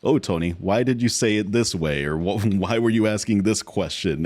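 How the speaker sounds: casual, even-toned question; neutral questioning. Acted. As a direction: ask it neutrally, no accusation. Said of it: "it's neutral tone question".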